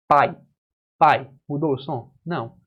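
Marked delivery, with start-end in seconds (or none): 0.1-1.3 saying "Pai" with the nose pinched closed; "Pai" spoken through a pinched nose; nose held shut. Shown as a demonstration. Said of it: "Prenda o seu nariz e fale".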